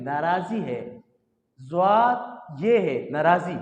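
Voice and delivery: नाराज़ी with no g sound, naa-raa-zee; teacher models नाराज़ी softly and clearly; correct pronunciation. Shown as a demonstration. Tutor shows students the correct नाराज़ी. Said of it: "नाराज़गी नहीं है".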